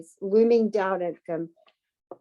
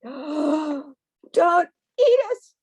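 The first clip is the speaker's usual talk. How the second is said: louder, very slow frightened plea; pleading cry; 7 semitones higher, 6 dB louder, much slower than usual. A narrator's reading. Duck begging the fox at the door: loud slow frightened plea. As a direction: beg the fox, drawn out in fear. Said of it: "cries Duck".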